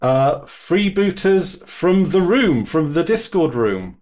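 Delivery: slow, formal welcome to the class; stiff, careful schoolroom opening; substitute teacher voice. Real, not acted. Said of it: "why do you sound like a substitute teacher right now".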